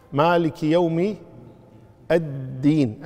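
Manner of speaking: slow recitation, hanging on the "dd" of الدين; مالك يوم slowly, then الدين with a held double dal; doubled dal. Shown as a demonstration. Teacher pointing out a shadda, slow, doubled dal in الدين. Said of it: "مشددة".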